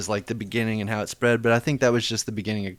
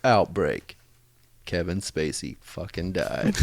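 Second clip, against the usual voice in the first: movie trailer voice; 4 semitones lower, 4 dB quieter, slower than usual. Shown as a demonstration. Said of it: "you have to do the movie voice".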